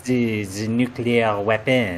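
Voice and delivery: mock-dramatic reveal in a hammed-up French accent; a sly French-accented confession; host reveals he is from another universe, in mock French; fake French accent. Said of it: "outrageous French accent".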